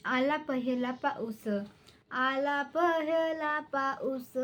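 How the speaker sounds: measured, sing-song recitation of a folk poem. Acted. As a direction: recite each line with a lilting rise. (कविता गायन शैलीत, लयबद्ध)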